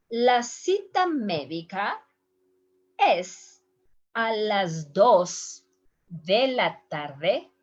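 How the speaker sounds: slow, careful receptionist reply; slow front-desk answer. Acted. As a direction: spell out the appointment slowly. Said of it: "somebody's helping is answering".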